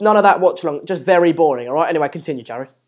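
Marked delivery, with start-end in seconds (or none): 1.0-1.7 emphatic title. Shown as a demonstration. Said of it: "Don't title it what".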